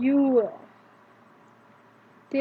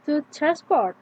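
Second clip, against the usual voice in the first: "To transport" with stress on "port"; second-syllable stress; 3 semitones higher, 3 dB louder than usual. Shown as a demonstration. Teacher showing the verb, "To transport" stressed on "port". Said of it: "the stress is on the second syllable".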